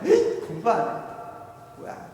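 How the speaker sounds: high, loud exasperated whining; irritated teen outburst. Acted. Teenager snaps back at mother's homework nagging, irritated. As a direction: blow up in annoyance, pitch soaring. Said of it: "막 짜증내죠?".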